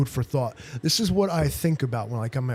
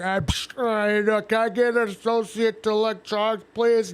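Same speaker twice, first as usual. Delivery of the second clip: much higher, polite customer asking for an associate; mock customer voice; 8 semitones higher than usual. Mocking a Walmart shopper calling for help on the phone, higher. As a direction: put on a sing-song helpless shopper.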